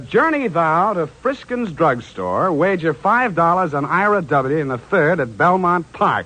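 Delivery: a hint of a slow, grand oracle; mock oracle reading. Detective reading the card aloud, mock solemn. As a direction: read it like a lightly mocking prophecy. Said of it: "Well, it says".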